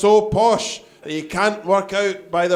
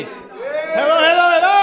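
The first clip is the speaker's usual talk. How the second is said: rising hello; 8 semitones higher than usual. Real, not acted. Compere greeting the room.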